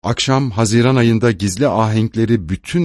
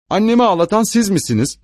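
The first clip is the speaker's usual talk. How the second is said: put-on much higher, a touch of childish anger; angry child; 10 semitones higher, faster than usual. A narrator's reading. Jules confronting the stranger who made mother cry, mildly angry. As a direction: challenge him like an indignant boy. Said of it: "albaya öfkeyle bakarak".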